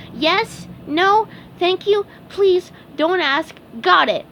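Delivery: high, quick eager recital; eager sponge voice. Acted. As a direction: rattle off the rules eagerly.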